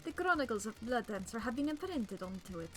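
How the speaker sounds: hammy exaggerated Italian accent; cartoonish Italian accent, grand and theatrical; over-the-top Italian accent. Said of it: "since I couldn't do an Italian accent".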